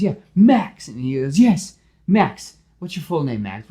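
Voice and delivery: cheerful, chatty superhero; Spider-Man voice. Acted.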